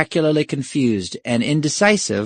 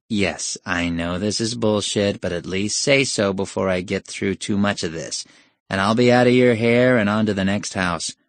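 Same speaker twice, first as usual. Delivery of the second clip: without heart; 2 semitones lower than usual. Acted. Teenage door-to-door salesperson thinking to himself, heartless. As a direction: recite it like a reluctant salesman. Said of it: "as without heart as the sales pitch".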